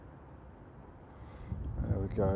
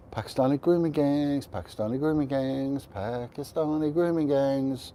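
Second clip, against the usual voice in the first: mocking refrain. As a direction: parrot a tired slogan, slowing at the end. Mocks endlessly repeated media phrase.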